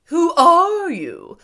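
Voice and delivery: slow, high, loud straw-man question; husky scarecrow. A narrator's reading. Scarecrow asking the girl who she is, husky. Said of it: "in a rather husky voice".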